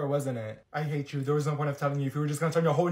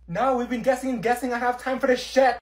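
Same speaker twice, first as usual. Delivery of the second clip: fed up; 6 semitones higher, 9 dB louder than usual. Acted. Frustrated by endless guessing.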